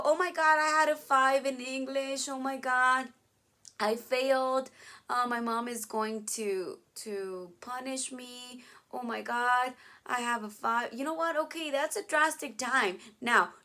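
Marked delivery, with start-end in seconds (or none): 0.0-10.9 loud, hammed-up student panic over a bad grade; panicked student. Teacher acting a student panicking about failing English. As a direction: play the kid who just failed English.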